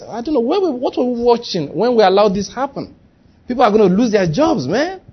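high, mock-alarmed complaint; worried staff reaction. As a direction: act out dismayed disbelief.

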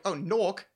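"nork" as "nawk", R dropped; American mimicking a British "nork"; imitated British pronunciation. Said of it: "I just said it like you".

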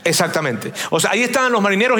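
usual speaking voice

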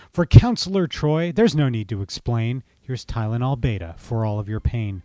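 showy, teasing gift list; gift-giving Q. Acted. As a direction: hand out each gift with a smirk. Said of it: "with his most charming smile".

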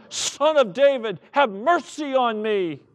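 preacher's acted crying out; insistent shout. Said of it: "but he shouted all the more".

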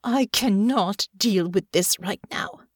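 restrained angry growl; contained, seething dismissal. Acted. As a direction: bite back the anger and dismiss them. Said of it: "she turned to Natasha and growled".

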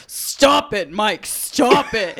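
slow, laughing mock scolding; a grandma playfully pushing away her flirting husband; flirty grandma. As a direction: scold him playfully, stretching it out. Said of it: "she'd be like".

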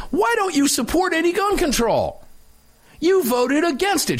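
high, accusing mock reporter voice; hammed-up accusing reporter; mock reporter insinuation. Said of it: "Insinuation is".

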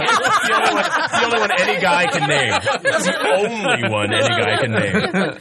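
laughing. Real, not acted. Laughing repeated insistence.

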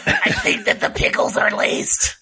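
high, breathless whisper through laughter. Acted. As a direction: whisper it close into her ear. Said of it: "He whispers it quietly in your ear".

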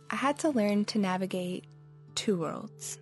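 ordinary delivery, nothing marked

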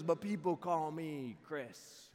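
slow, lightly voiced odd neighbor; a hint of creepy stranger; Critter. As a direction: imitate a weird guy, stretching the words a little. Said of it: "And he goes".

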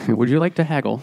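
put-on haggling in a vague Dracula accent. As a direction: put on a loose, Dracula-style foreign accent. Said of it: "You sound like Dracula".

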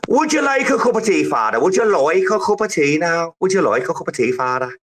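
high, insistent tea-offering character voice; comic catchphrase impression. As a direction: put on a pestering character, starting high.

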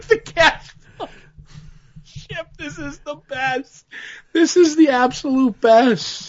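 high, delighted squeal of joy; excited gushing. Retold or imitated. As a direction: gush like a thrilled fan. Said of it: "And I'm like".

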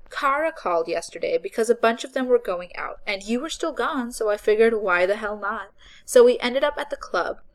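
put-on loud, eager girl's chatter; excited young woman. A narrator's reading. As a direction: rattle on with excitement. Voices Becca.

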